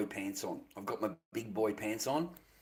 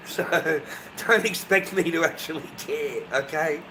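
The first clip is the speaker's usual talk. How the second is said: louder defiance; 4 semitones higher, 6 dB louder than usual. Real, not acted. Defiant rant at chat.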